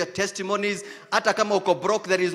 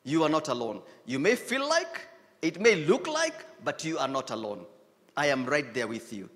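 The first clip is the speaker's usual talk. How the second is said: softer, lower voice of comfort; tender divine reassurance; 6 semitones lower, 4 dB quieter than usual. Pretend. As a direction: whisper God's comfort close. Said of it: "a word that will come and say".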